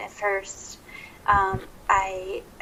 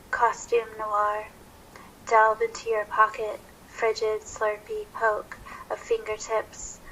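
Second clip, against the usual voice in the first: poetry reading. Acted. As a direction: read it like a noir poem, pausing between images. Reads her own poem aloud.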